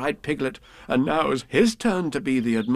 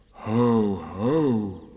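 Heffalump ho ho. Retold or imitated. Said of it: "in the sort of voice this Heffalump".

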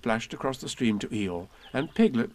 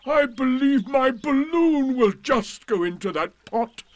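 high, louder eager donkey; excited; 14 semitones higher, 6 dB louder than usual. A narrator's reading. Eeyore excitedly realising the balloon fits the pot. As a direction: rush it out, thrilled. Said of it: "he became quite excited".

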